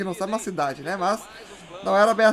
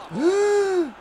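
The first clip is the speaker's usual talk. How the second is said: sharp gasp; 10 semitones higher, 3 dB quieter than usual. Real, not acted. Tense moment, near red card.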